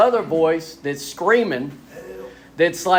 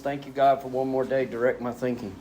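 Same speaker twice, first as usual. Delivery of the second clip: quiet prayer; 3 semitones lower, 6 dB quieter than usual. Retold or imitated. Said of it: "I say".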